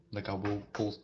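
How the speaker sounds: hiccuping mid-sentence; words broken by hiccups. Real, not acted. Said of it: "Oh, I'm hiccuping now".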